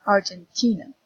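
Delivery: Argentina with the stress on "ti"; Argentina, leaning on the syllable "ti"; stress on third syllable. Shown as a demonstration. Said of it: "T is the stressed syllable".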